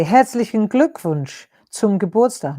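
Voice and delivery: a loud, proud herzlichen Glückwunsch zum Geburtstag; loud German greeting. Shown as a demonstration. Teacher calls out the German birthday greeting, loudly. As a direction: call it out for the viewers to copy. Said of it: "Now say that if you can".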